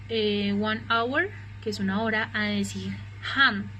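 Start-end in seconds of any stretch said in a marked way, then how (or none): 0.5-1.3 "one hour" very slow, the h silent. Shown as a demonstration. Teacher to students, slow model of a silent h. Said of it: "no es lo mismo decir". 3.3-3.7 "hand" with a clear breathy h at the start; sounded h. Shown as a demonstration. Teacher to students, showing the h in "hand". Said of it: "ahí sí suena".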